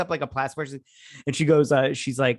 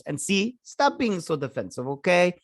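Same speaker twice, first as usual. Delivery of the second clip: mock exasperated scolding; 5 semitones higher than usual. Acts out Yelena scolding Kate.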